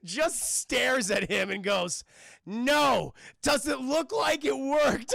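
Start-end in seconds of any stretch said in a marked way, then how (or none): 2.5-5.2 put-on higher, louder, slow German accent retort; hammed-up German mad scientist accent; deadpan German villain. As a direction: answer with withering German scorn. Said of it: "stereotypical evil German Nazi scientist".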